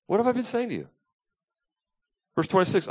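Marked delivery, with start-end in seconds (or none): 0.1-0.9 exasperated retort. Retold or imitated.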